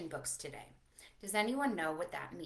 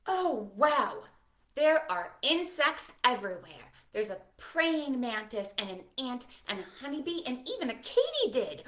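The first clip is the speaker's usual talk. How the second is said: excited wonder; 5 dB louder than usual. Acted. Excited reveal of insects.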